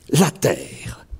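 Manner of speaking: whispered poem line. Acted. (murmuré dans un souffle)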